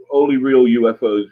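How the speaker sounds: dry mouth, swallowing between words; talking with a dry mouth. Real, not acted. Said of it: "I'm getting a bit dry mouth".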